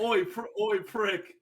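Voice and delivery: high mock-Cockney heckle; Cockney ghost. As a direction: call someone out in a put-on Cockney accent. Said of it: "the Cockney type".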